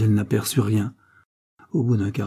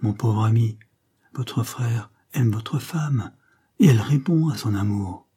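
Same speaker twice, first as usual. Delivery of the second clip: deliberate, distinct delivery of "aime votre femme"; distinctly accentuated. A narrator's reading. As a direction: set "votre frère" and "votre femme" apart, each clearly accented. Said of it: "d'une voix nettement accentuée".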